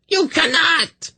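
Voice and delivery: very high, slow shriek of disbelief; horrified shriek. A narrator's reading. Kabat refuses her demon's betrayal, shrieking. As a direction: shriek in desperate protest. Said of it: "she shrieked".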